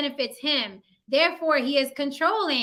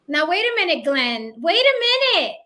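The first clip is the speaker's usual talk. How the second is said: mock protest; 3 semitones higher, 4 dB louder than usual. Real, not acted. Co-host stops Glenn to challenge him, mock protest. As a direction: cut in with playful disbelief, pitch jumping up.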